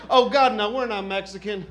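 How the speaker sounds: hammed-up South Texan expat, loud and drawn out; big mock South Texas voice; South Texas couple. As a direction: play an indignant Texan, stretching the key words. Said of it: "a couple from South Texas".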